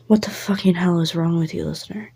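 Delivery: hissed, furious whisper through the teeth; Finny seething as he pins the listener; angry whispered snarl. Acted. Finny pins listener to wall, whispered fury. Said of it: "There's going to be an angry Finny".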